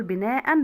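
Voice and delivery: بناء with a clear -an ending; نطق التنوين. Shown as a demonstration. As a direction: sound the final n in بناء. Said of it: "هي في اللفظ بس". (نطق بناء بنون ساكنة في آخرها)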